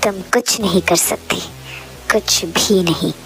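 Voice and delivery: stern protective hero. Acted. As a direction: put the intruder in their place, mildly. (हल्की सख़्त चेतावनी)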